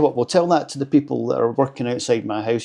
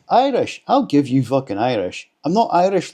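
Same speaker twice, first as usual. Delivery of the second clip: mock indignation; 3 semitones higher, 4 dB louder than usual. Scottish vlogger replying to being called Irish, mock indignation. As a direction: act lightly affronted, louder on the protests.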